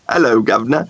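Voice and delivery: half-hearted mock Cockney greeting; stereotypical Cockney. Guest put on the spot to mimic an accent, tentative Cockney. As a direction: reluctantly echo a stock Cockney accent. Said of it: "That was a stereotypical Cockney accent".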